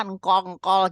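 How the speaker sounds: "engkol-engkol" with the first consonant of jengkol dropped; mispronounced jengkol. Retold or imitated. Child asking for jengkol but unable to say it, mispronounced. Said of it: "dia nggak bisa ngomongnya".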